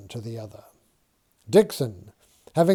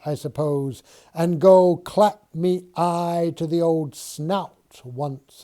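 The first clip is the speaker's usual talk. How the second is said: smirking; 4 semitones higher, 4 dB louder than usual. Acted. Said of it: "smirks Mason".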